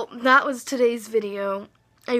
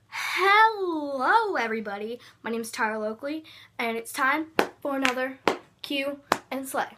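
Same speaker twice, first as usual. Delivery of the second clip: Tyler Oakley impression. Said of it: "do your best impression of Tyler Oakley".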